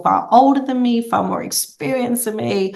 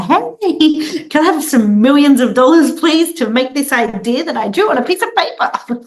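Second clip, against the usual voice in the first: put-on very high, louder girlish ask; young pitch voice; 7 semitones higher, 4 dB louder than usual. Young founder pitching a boardroom for money, very high girlish voice. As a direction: play a cute kid asking adults for millions. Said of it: "I'd have to walk into boardrooms and be like".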